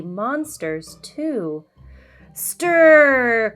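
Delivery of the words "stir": called out. A narrator's reading. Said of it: "called the ma".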